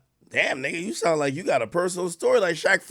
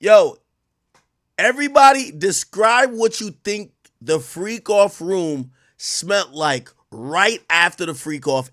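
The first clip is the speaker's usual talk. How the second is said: loud call to chat; loud announcement to viewers; 6 dB louder, slower than usual. Real, not acted. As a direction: hail the whole chat. Calling out to the chat.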